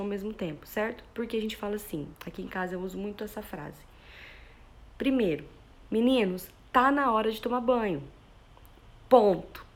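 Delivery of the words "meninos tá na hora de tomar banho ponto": louder, firm statement with no question in it; firm announcement. Shown as a demonstration. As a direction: tell the kids it's bath time, end of discussion. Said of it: "Eu tô sendo firme".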